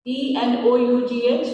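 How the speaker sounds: slow spelling of "L A U G H", each letter apart; spelled letter by letter. Shown as a demonstration. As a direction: spell it out slowly, one letter at a time. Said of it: "Now I am reading". (अक्षर-अक्षर धीरे से)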